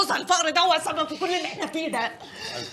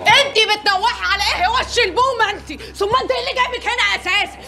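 angry scolding; 4 semitones higher than usual. Acted. Quarrel with the wailing neighbour.

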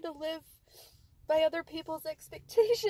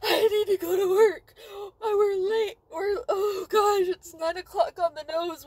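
crying; 4 dB louder than usual. Real, not acted. Crying late for work.

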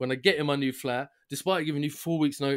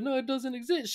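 high mock agent voice; imitating call agent; 9 semitones higher, 3 dB quieter than usual. Agent claiming the device doesn't exist, mocked high. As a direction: say it with prim high certainty. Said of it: "She goes".

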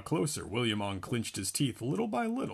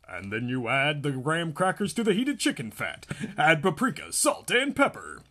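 TV cooking host; 4 semitones higher, 4 dB louder than usual. Acted. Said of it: "It was a cooking program".

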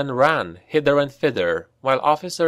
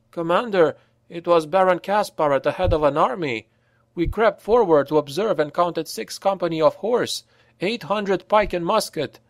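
a corporal's raised, pressing report; lightly voiced soldier with bad news; urgent corporal; 8 semitones higher than usual. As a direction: lay out the army, up-voiced and urgent. Corporal reports the enemy army.

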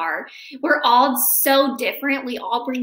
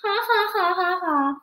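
mocking laugh; 6 semitones higher than usual. Pencils mock Eraser.

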